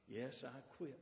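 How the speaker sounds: very soft, matter-of-fact confirmation; hushed old-dog reply; old greyhound. Acted. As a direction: confirm it quietly.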